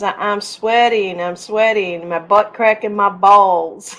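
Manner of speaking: imitating a little kid's Southern accent, slowly. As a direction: drawl it lightly like a Southern kid. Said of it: "with a very Southern accent".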